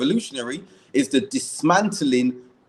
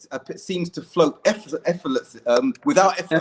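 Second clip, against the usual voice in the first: stumbling over the words; tongue-tied. Real, not acted. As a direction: trip on the word and restart. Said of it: "I'm tongue-tied".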